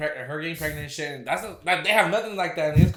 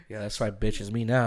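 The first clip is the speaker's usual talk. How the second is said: mock gloating at a picture; 7 semitones lower, 5 dB quieter than usual. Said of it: "Talking to the picture".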